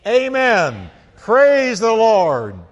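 high, very loud shout of worship; booming congregational acclamation; crying out. Acted. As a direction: cry it out slowly for everyone to join. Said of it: "And they cried out".

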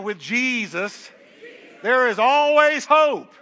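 emphatic, slow declaration building to a loud, high HOPE; like you mean it. Shown as a demonstration. Preacher leading congregation to say it with him, like you mean it. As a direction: proclaim it with full conviction, stretching each word. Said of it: "Say it like you mean it".

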